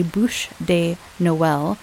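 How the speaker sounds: slow, careful attempt at French; non-native stab at French pronunciation; terrible French accent. Real, not acted. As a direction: say "bûche de Noël" slowly in clumsy French. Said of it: "pardon my terrible French accent".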